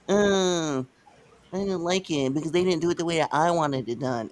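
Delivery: lightly voiced grumbling fan; a hint of a sulky complainer; complaining fan. Host mimicking a fan upset by a wrestling turn, mildly whiny.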